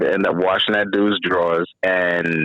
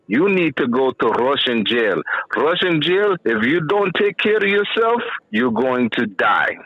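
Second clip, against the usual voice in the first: put-on Russian accent; 3 semitones higher than usual. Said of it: "He had that Russian accent".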